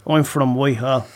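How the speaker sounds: lightly voiced Dublin uncle; a hint of a proud old Dubliner; Uncle Jerry impression. Impressionist voices his late Uncle Jerry for the hosts. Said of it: "he used to talk like that".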